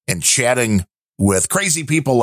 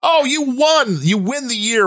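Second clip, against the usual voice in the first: delighted exclamation; 12 semitones higher than usual. Real, not acted. Reacting to the joke.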